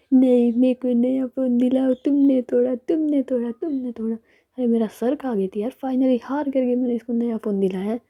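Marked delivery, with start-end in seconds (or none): 0.1-4.1 put-on whiny nagging girl. Ritika सैमी से नया phone माँगती है, ऊँची आवाज़ में रट लगाते हुए. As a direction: nag like a spoiled kid demanding a phone. Ritika nags for a new phone.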